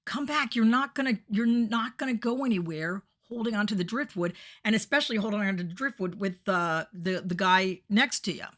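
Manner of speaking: lightly hammed-up yelling from the boat; mock yelling. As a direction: call them back across the water. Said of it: "people are yelling".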